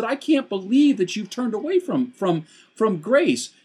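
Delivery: high, stunned disbelief; astonished Paul. Retold or imitated. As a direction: let the words stumble in shock. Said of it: "He said".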